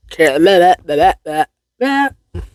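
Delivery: tongue-tied nonsense syllables; flustered babbling. Real, not acted. Woman tripping on a tongue twister, flustered babbling. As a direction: let the botched word collapse into babble.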